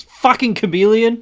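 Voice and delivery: high, loud mock outburst; acted outraged reaction. Australian voice actor reacting to Ross losing his accent, loud mock outrage. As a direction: blurt it out as a scornful accusation. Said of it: "her reaction was".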